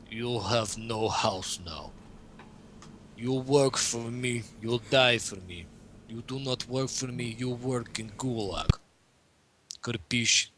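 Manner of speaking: slow, stern mock Russian accent; lightly hammed Russian accent, menacing. Host voicing communism as a stern dictator in mock Russian accent. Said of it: "stereotypical, like, Ukrainian Russian".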